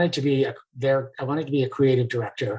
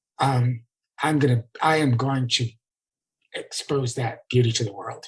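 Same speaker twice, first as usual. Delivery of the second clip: choked-up voice catching in the throat. Talking with others about a person, the speaker is choking up. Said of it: "I'm actually choking up".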